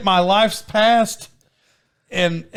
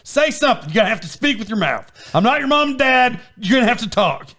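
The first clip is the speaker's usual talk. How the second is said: high-pitched, pleading exasperation; hammed-up scolding, half amused; mock exasperated lecture; 8 semitones higher than usual. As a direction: plead with a silent kid to use words. Acted exasperated scolding of child.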